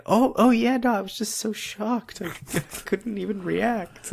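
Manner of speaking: very high, flustered babbling; flustered cover-up. Retold or imitated. Character covers up being stunned by the money, very high flustered voice. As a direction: gush out a nervous excuse.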